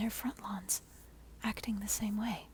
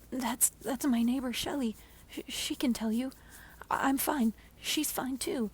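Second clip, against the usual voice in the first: 1 panicked pleading; 3 semitones higher, 4 dB louder than usual. Acted.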